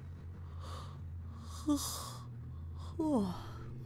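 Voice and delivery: a long, breathy tired sigh; drawn-out sleepy sigh; long weary sigh. Real, not acted. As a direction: let a slow sigh out.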